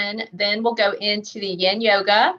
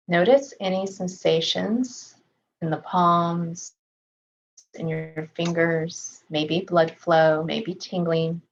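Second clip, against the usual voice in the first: calm, measured meditation voice with long pauses; unhurried body-scan guidance, settled and even; guided meditation; 2 semitones lower than usual. Real, not acted. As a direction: gently guide them through a body scan, leaving space to breathe.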